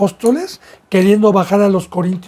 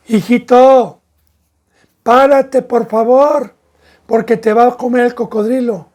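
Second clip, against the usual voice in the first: a father coaxing his son, a bit raised; gentle pleading father; 3 semitones higher, 4 dB louder than usual. Acted. Father gently begging his son to stop near the crocodile. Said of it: "con una palabra persuasiva".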